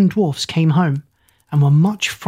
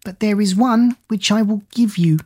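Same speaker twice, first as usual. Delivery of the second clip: put-on old woman; 5 semitones higher than usual. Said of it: "said the old woman".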